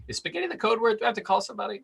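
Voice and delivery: high, alarmed questions. Retold or imitated. Son on the phone with mom, high mock alarm. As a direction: raise the pitch in mock alarm. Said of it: "I'm like".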